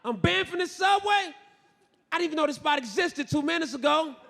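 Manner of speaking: high-pitched mock outrage; acted shocked exclamation; incredulous. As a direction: protest it in high disbelief. Acts shock at being banned.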